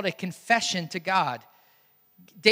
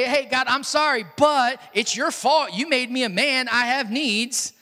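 mock self-justifying plea, raised pitch; apologise, then push the blame away; blame-shifting apology; 3 semitones higher, 3 dB louder than usual. Preacher imagines David blaming God, excuse-making apology. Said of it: "David didn't say".

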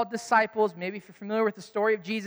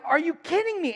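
incredulous; 8 semitones higher than usual. Retold or imitated. Fan amazed friends don't know.

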